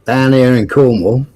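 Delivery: Cornish accent put on by request; lightly done Cornish demo. Shown as a demonstration. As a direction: have a go at Cornish. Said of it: "Say Cornwall in a Cornish accent".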